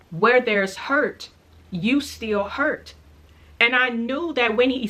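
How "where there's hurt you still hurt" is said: slowed, each word laid down with weight; slow prophetic words. Retold or imitated. The boy, repeating the words given to him, slow and deliberate. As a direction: let the words come slowly as if given from above. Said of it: "And then he said".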